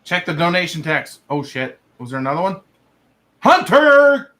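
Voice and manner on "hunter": loud, high shout of a name; loud shout-out to a stream donor; calling out. Real, not acted. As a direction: call the donor's name out with a burst of energy.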